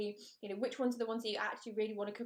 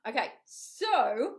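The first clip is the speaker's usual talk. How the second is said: whisper; 5 dB louder, much slower than usual. Real, not acted. Whispering aside while reading.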